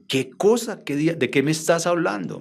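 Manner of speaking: incredulous retort. Retold or imitated. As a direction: retell a baffled "what on earth?" reaction. Retelling his baffled reaction to Rochi.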